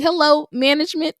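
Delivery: high, hammed-up demand for the manager; imitating an entitled diner; mock complaining customer. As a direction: play the fussy customer calling for management.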